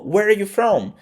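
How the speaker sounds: "Where are you from?" linked, "are" nearly dropped; natural reduced pronunciation. Shown as a demonstration. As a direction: run "Where are you" together lightly. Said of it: "nessa técnica".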